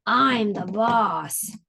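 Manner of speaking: slow, lightly voiced troll. Troll boasts slowly under the bridge. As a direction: drag it out like a bossy troll. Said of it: "He said".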